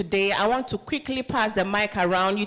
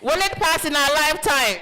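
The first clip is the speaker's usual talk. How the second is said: rally call raised; 5 semitones higher than usual. Real, not acted. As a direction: push the question up to fire the room. Repeated rally call, higher.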